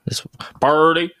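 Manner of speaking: hammed-up redneck "Purdy", slowly drawn out; redneck accent. Host teased by co-host about a player's name, hammed-up redneck accent. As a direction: stretch "Purdy" into an exaggerated redneck drawl. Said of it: "saying it like a redneck".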